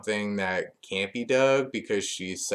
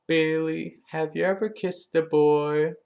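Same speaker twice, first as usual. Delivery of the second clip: higher, mocking schoolyard jab; nasty taunt; 7 semitones higher, 3 dB louder than usual. Alexa taunting Bayley with a mocking nasty jab. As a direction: needle her with a sneer. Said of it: "then she gets really nasty".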